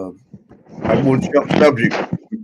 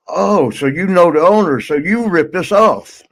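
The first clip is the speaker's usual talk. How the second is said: higher, accusing call upward; yelled accusation; 5 semitones higher than usual. Retold or imitated. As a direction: shout up, half joking, calling him out. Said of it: "one of them yelled up".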